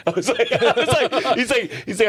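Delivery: high-pitched, cracking up mid-sentence; laughing while talking. Real, not acted. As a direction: struggle to start the quote through laughter. Laughing over the pastor's reaction.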